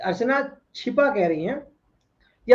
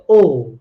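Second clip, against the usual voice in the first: mock oh; 7 semitones lower, 8 dB louder than usual. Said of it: "प्रशांत कह रहे".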